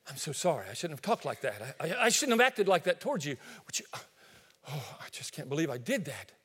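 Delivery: soft, sorry apology; quietly ashamed, near a whisper at the end; voicing a believer's regret, mildly; hushed remorse.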